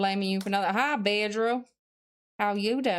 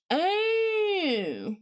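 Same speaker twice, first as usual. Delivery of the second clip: surprised; 9 semitones higher than usual. Real, not acted. Reacts suddenly to chat.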